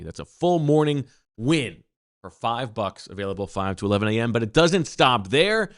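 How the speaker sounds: punchy sponsor read with drawn-out key phrases. Acted. Host pitches Wawa deals to listeners, upbeat ad read. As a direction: sell the deal, leaning on the big words.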